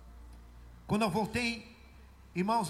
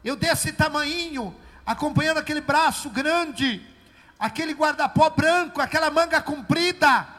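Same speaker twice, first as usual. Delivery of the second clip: loud, higher, fervent testimony; preaching at full force; 5 semitones higher, 12 dB louder than usual. Acted. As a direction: proclaim it to the church.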